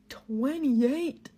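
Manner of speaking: loud rising disbelief; shocked echo. Real, not acted. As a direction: throw the number back, stunned.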